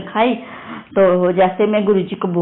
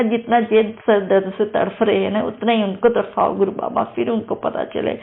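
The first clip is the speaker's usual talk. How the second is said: tearful prayer; 3 semitones higher than usual. Retold or imitated. Praying to guru in distress over husband, tearful pleading. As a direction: beg the guru, voice close to crying. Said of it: "फिर मैं बहुत ज़्यादा रोई".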